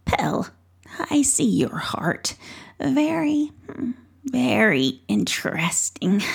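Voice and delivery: lightly voiced knowing old witch, coaxing; a hint of a crone luring the boy in. Old witch coaxing Pell through the door, lightly voiced.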